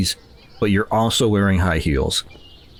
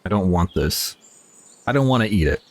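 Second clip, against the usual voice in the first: normal talking voice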